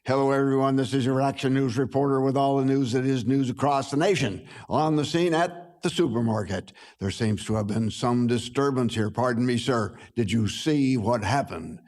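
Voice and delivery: a light touch of an eager TV reporter; lightly voiced roving news reporter; on-the-spot reporter asking a shopper, lightly voiced; news announcer. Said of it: "an announcer going".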